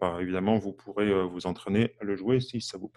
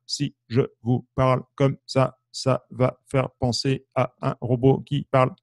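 syllabes détachées comme un robot; parole staccato. Shown as a demonstration. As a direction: hacher chaque mot. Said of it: "je parle staccato". (parler en staccato comme un robot)

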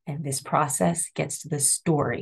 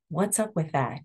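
elevator tone. Shown as a demonstration. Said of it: "do you hear that tone in my voice".

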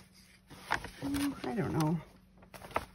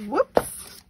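surprised; 10 semitones higher, 7 dB louder than usual. Real, not acted. Tore two pages.

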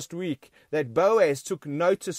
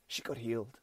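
much softer, almost breathed; hushed echo; 8 semitones lower, 13 dB quieter than usual. Shown as a demonstration. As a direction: drop the voice to a hush. Echo repeat nearly whispered.

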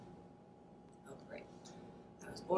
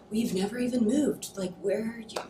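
exasperated outburst; 4 semitones higher, 10 dB louder than usual. Acted. Daughter confronts absent mother.

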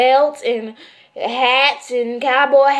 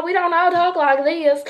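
mock Texas twang; 3 semitones higher than usual. Shown as a demonstration. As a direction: parody of Texas talk.

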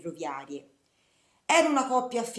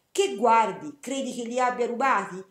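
retold snappy half-shout, louder at the start; 4 dB louder than usual. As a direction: throw it at him, almost yelling. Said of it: "quasi mi gridò".

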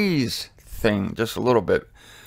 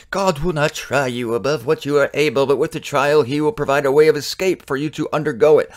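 put-on a light, half-hearted old King James English recitation; King James reading. Shown as a demonstration. Teacher reads a verse to his live Bible study, in mock King James style. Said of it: "I'll say it in King James Version".

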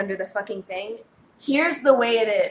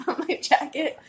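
laughing; 6 semitones higher than usual. Real, not acted. Laughs at own joke.

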